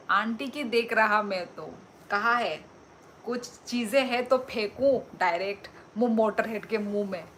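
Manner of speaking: loud, playful jab at a friend; mock-scolding a viewer, loud; loud teasing. Real, not acted. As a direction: tease him loudly back.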